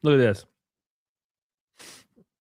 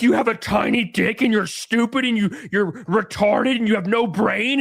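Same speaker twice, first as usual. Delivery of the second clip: mocking quote; 4 semitones higher than usual. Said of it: "They're always like".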